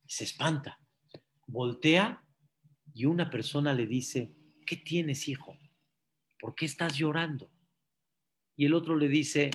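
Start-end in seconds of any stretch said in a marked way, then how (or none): 4.6-7.5 soft, caring question; gentle concern. Acted. Kind stranger asks a weeping man, gentle concern. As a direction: ask softly, as to a son.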